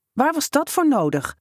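high indignant outburst. A narrator's reading. Muddy boy confronting the prankster, indignant and high-pitched. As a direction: demand it, high and offended. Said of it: "bracht hij verontwaardigd uit".

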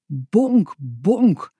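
drawn-out bonk, bonk; imitated door banging. A narrator's reading. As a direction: mimic knocks on a door.

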